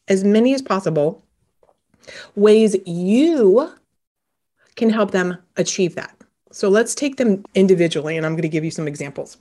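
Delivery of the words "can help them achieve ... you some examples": talking between sips of a drink; sipping a drink. Real, not acted. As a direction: speak as if mid-sip. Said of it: "Pardon me, I'm drinking my green drink".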